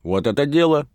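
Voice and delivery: high, loud cheer; a burly reveller whooping yes; hearty approval. A narrator's reading. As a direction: cheer the plan like the village rake.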